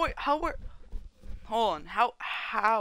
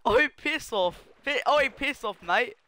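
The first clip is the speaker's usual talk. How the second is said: put-on Australian accent; 4 semitones higher than usual. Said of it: "Stop with the Australian accent".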